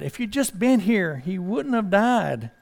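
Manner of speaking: a touch of grief, slowing on the last words; mild distraught plea. Acted. Martha to Jesus about her dead brother, mildly grieving. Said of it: "And she was distraught".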